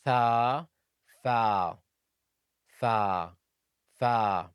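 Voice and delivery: Tha with the tongue out, then fa with no tongue; tha and fa contrast. Shown as a demonstration. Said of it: "In fa, you don't".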